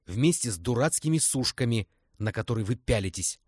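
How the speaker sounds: furious. Acted. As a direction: keep the anger going. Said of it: "взбешённо крикнула Лиза". (Лиза продолжает злиться)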